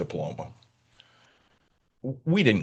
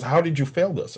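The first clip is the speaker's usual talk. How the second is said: higher-pitched mock coach's scolding; retold scolding; 6 semitones higher than usual. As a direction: retell the coach demanding an explanation. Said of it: "Are you yelling at him too".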